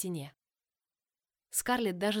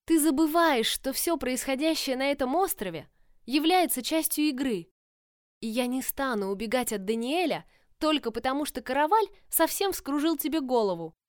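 heated; 6 semitones higher, 6 dB louder than usual. A narrator's reading. Tella argues heatedly.

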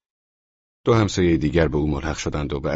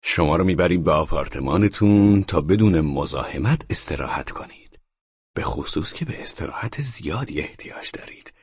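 mocking; 2 semitones higher than usual.

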